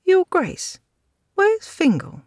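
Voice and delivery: high, strained woman's voice; frightened woman. A narrator's reading. Lady pleading with the lord over Fingal, high and tense. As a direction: pitch it up as the anxious lady.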